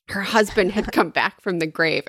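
ordinary talk, nothing marked

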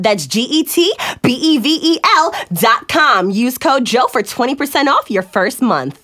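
light ad announcer read, spelling out. Pretend. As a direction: spell the web address like a lektor. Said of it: "That was a total announcer voice".

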